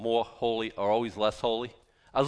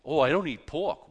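mock self-righteous. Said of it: "Self-righteous".

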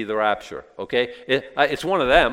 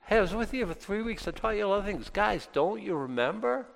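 pleading Paul; 9 semitones higher, 5 dB quieter than usual. Acted.

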